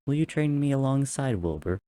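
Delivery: put-on high, eager child voice; a young prince asking hopefully; eager little boy. A narrator's reading. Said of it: "the younger prince had said".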